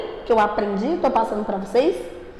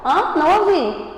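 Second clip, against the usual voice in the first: fingindo não ouvir; 5 semitones higher than usual. Pretend. Finge não ouvir a turma.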